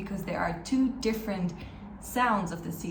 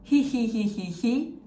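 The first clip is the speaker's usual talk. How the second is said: louder practice giggle of he sounds; mock giggle; 2 semitones higher, 4 dB louder than usual. Shown as a demonstration. Teacher rehearsing the laugh trick once more. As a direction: laugh out he he to set up the ch. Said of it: "let's try it one more time".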